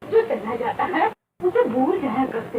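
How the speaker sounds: mother consoling her daughter with a laugh; laughing soothing. Acted. Mother soothing crying child.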